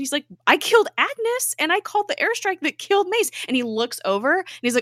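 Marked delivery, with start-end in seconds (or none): 0.5-3.3 distraught Fitz. Retold or imitated. Retelling Fitz confessing.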